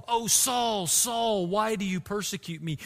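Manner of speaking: a soft, grieved appeal that fades at the end; earnest plea. Retold or imitated. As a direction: plead with him, lightly grieved. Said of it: "It's a plea, an earnest plea".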